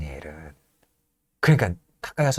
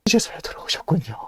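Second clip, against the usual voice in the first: hushed emotional whisper; old servant whispering to master; tearful whisper; 5 semitones higher, 3 dB quieter than usual. Acted. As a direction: breathe it out in awe. Servant recognizes returned master.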